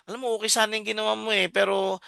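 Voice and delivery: gentle correction. Shown as a demonstration. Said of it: "i-revise natin".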